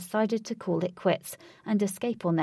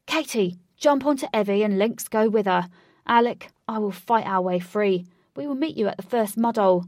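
shouting orders; 2 semitones higher, 6 dB louder than usual. Acted.

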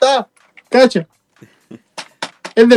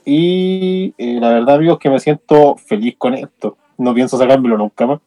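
muffled behind a plastic mask; talking from inside a costume mask; through a face mask; 4 semitones lower than usual. Real, not acted. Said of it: "Te escucháis como Darth Vader".

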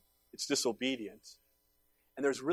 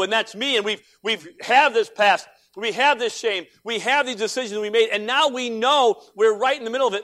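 rising preaching; 7 semitones higher, 10 dB louder than usual. Acted. Pastor telling the congregation some things can't be undone, loud preaching. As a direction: build the weight of things that cannot be undone. Pastor presses on the unfixable past.

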